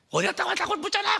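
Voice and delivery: shrieking high, loud mother's yell; a mother screaming at her son for running off; furious mother yelling. Retold or imitated. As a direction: scream at the boy who came home late.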